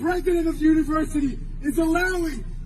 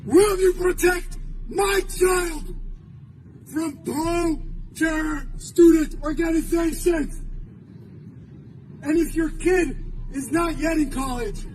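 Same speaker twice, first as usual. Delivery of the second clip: forceful, emphatic public address; urgent protest oratory; impassioned rally speech. Real, not acted. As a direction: hammer out each phrase to the crowd, with long pauses.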